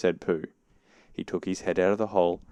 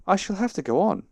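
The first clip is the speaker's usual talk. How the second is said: high, louder straining resolve; dismayed; 12 semitones higher, 6 dB louder than usual. A narrator's reading. Pooh trying to climb onward, dismayed. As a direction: push it out high and loud.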